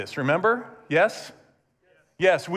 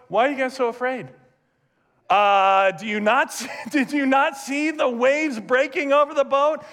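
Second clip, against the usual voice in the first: teasing chiding; 4 semitones higher than usual. Acted. Jesus chides disciples.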